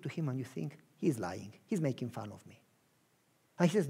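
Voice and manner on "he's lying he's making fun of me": low, soft suspicious thought; low soft suspicious inner voice; quiet inner doubt. Acted. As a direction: think it to yourself. Listener's private doubtful thought.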